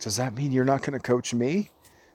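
mock teary-eyed, high-pitched child voice. Retelling a son's question about coaching: imitating a teary-eyed child.

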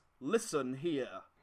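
menacing, intimidating, low and looming. Voicing a robber who looms over a player to intimidate: intimidating, looming threat. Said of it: "he sort of looms over you and says".

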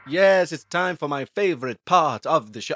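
sounding like a vampire. A show host introduces a favourite segment, in a vampire voice. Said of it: "I sound like a vampire there".

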